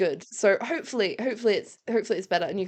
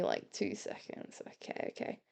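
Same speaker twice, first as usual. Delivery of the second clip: whispering; 16 dB quieter than usual. Real, not acted. Quietly recording clip.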